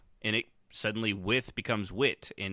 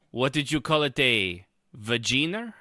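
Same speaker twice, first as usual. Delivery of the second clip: vampire voice; 2 semitones higher than usual. Acted. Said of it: "you sound like Khajiit".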